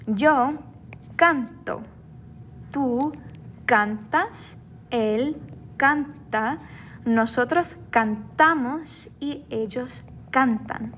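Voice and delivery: measured conjugation drill, CANto, CANtas, CANta, canTAmos, CANtan; stress on second-to-last syllable. Shown as a demonstration. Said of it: "Notice how that stress is where those underlines are".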